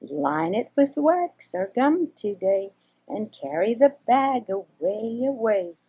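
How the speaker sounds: slow, gentle little mouse voice; friendly mouse. Acted. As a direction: coax him kindly, slowly. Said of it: "the friendly little mouse".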